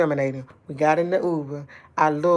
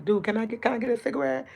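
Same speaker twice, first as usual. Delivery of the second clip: mimicking daughter; 5 semitones higher, faster than usual. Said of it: "That's my daughter".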